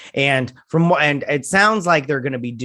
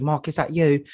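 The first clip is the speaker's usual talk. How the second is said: higher-pitched imitation British accent; mock British accent; 5 semitones higher than usual. Layla calling to Mark, lighter mock British accent. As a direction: lightly put on a British woman's voice. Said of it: "she doesn't have a British accent".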